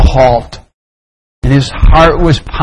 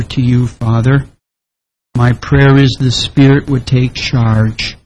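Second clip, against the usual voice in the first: hushed, low congregational prayer; 5 semitones lower, 4 dB quieter than usual. Real, not acted. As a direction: pray softly and earnestly to the Father. Leads an opening prayer.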